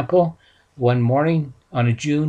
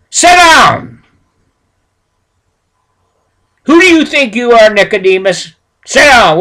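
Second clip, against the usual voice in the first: much higher, much louder, shouting him down; angry shout; 6 semitones higher, 10 dB louder than usual. Retold or imitated. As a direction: silence him with rage. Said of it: "They were all upset".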